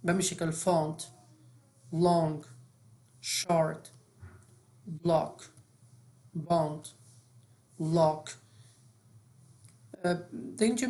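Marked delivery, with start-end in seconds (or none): 0.5-1.1 "فونت" with its O opened to آ; short O as آ. Shown as a demonstration. Teacher giving a short O example, "فونت" with آ. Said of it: "به اندازهٔ آ تلفظ کنیم". 1.9-8.3 word list "لانگ، شارت، بلاک، باند، لاک", each O said as open آ; short O as آ. Shown as a demonstration. Teacher drilling short O examples, each with آ. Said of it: "به اندازهٔ آ تلفظ کنیم".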